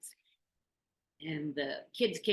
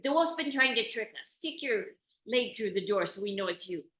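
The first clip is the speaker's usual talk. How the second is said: put-on little kids voice; 4 semitones higher, 5 dB louder than usual. Kids cautious.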